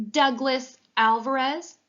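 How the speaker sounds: put-on boy calling roll like a basketball announcer, slow and booming. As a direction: announce the name like a courtside MVP introduction. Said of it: "he said in his best announcer voice".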